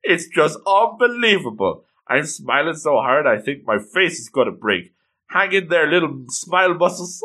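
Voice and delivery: gushing retold delight, rising in bursts; so excited. Girl about to see a spell cast, excited. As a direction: play a thrilled girl gushing. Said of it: "she is so excited".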